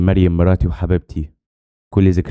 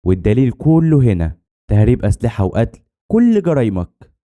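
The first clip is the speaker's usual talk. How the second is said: drawn-out words climbing high at the end; mildly triumphant confrontation; defiant accusation; 4 semitones higher than usual. Acted. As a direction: lay out the charges, stretching each one. Confronting the villain with proof.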